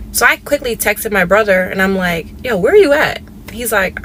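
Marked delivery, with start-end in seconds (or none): 2.4-3.2 higher, louder urgent yo; urgent check-in. Retold or imitated. Texting her brother in a hurry, louder urgent yo. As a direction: fire off the question to her brother.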